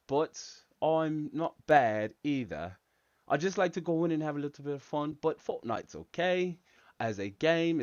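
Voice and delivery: chatty mock English accent; put-on English accent. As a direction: read and answer the chat as a pretend Englishman. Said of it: "talk using an English accent".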